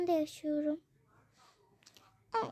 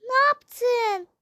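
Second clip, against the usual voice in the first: higher and louder, outraged; 6 semitones higher, 7 dB louder than usual. Acted. Mother confronting the father over pushing the girl. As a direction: confront him in shock.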